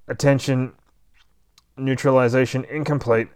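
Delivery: a hint of a robot voice; robot warning. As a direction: announce it like a machine alarm. Robot warns Bunny Head.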